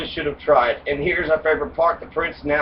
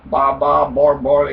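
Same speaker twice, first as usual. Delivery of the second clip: a lightly voiced barbarian babbling; mock barbarian babble; 4 dB louder, slower than usual. Host mocks barbarians' speech with babble. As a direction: babble it like a barbarian who can't talk right. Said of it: "they can't talk right".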